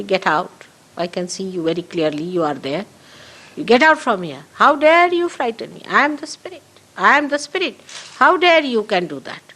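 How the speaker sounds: indignant command, pitch climbing after a firm start; fearless rebuke. Shown as a demonstration. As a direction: dismiss an intruder, then rise into affronted defiance. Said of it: "not to be frightened, you should just say".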